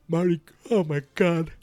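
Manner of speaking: excited. Real, not acted. Excited reaction.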